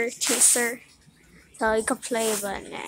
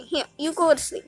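higher, quick coo of "go to sleep"; soft pet talk; 5 semitones higher, faster than usual. Real, not acted. Soothing a kitten to sleep, sweetly cooing. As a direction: coax the cat to sleep. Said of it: "have to be quiet 'cause he's asleep".

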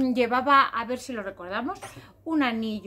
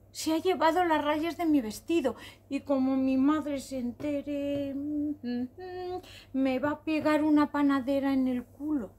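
tearful complaint. Acted. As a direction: whimper through the excuse, lightly hammed-up. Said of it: "Se puso a llorar desesperadamente".

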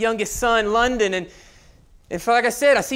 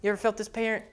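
soft, much quieter inner voice; self-talk; 8 dB quieter than usual. Retold or imitated. Father scolding himself under his breath, soft inner voice. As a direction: mutter to yourself. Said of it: "And I go like".

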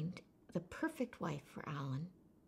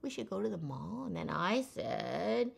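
vocal fry endings. Shown as a demonstration. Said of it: "That's the vocal fry".

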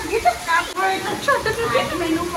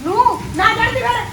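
challenging shout; 4 semitones higher, 4 dB louder than usual. Acted. Mother-in-law quarrel.

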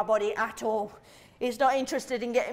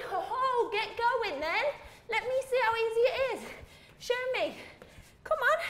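teasing challenge; 9 semitones higher than usual. Real, not acted. Coach challenging the doubter.

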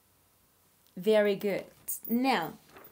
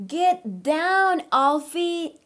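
higher, louder alarmed call; crying out; 6 semitones higher, 6 dB louder, much slower than usual. Acted. Mommy seeing Alfie at the window, shouting. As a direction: call out in alarm to a climbing child. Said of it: "cried Mommy".

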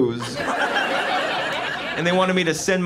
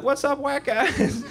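high, drawn-out mock-cheery hello; over-eager greeting; 10 semitones higher, slower than usual. Comic showing up at white guy meetings, over-eager greeting. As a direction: try too hard to fit in.

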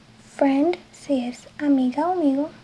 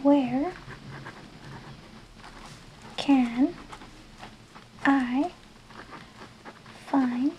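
one word at a time with long pauses; slow dictation for learners; 8 dB quieter, much slower than usual. Shown as a demonstration. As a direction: dictate each word slowly for writing. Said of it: "Escríbelo conmigo".

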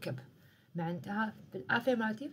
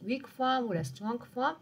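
slow teaching; 3 semitones higher, much slower than usual. Shown as a demonstration. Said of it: "السؤال تاعها راح يكون مثال".

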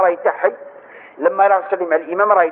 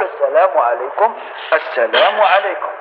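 gentle turning salam; 5 semitones lower than usual. Shown as a demonstration. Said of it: "بالتفاتة لينة".

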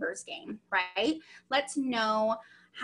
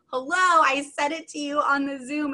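loud, higher mock-indignant "hello"; mock exasperation; 3 semitones higher, 6 dB louder than usual. Trainer to consultant who credits someone else, mock exasperation. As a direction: burst out as if they never listened.

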